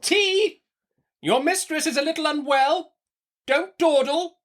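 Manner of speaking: high, brisk orders; commanding. Acted. Betsy ordering the servant, commanding. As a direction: bark out orders like the mistress.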